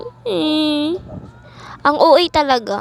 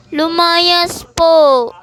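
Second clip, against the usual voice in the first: tearful; much slower than usual. Acted. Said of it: "Bakit ka umiiyak?".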